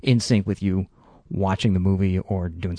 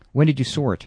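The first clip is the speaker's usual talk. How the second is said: put-on old-Hollywood Mid-Atlantic accent; raised, louder Mid-Atlantic accent; 6 semitones higher, 7 dB louder than usual. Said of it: "my favorite Mid-Atlantic accent".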